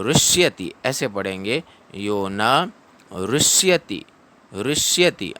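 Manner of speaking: ऋष्यति said as "rishyati" with the ri from the h position; ऋष्यति with ri breathed from the mouth; ऋष्यति, ri sound from mouth; ri pronounced with h position. Shown as a demonstration. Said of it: "ह की position मुंह में रखनी है".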